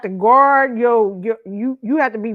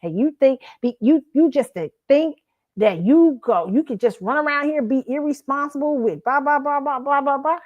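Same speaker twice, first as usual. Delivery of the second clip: retold cussing out; 3 semitones higher than usual. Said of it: "'Cause I'm like".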